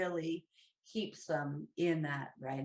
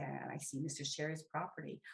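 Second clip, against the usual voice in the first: soft answer; 7 dB quieter than usual. Retold or imitated. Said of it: "they might say".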